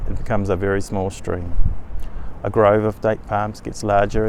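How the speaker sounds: measured meditation narration with long pauses; guided meditation. Acted. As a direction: guide the listener step by step through a journey, unhurried.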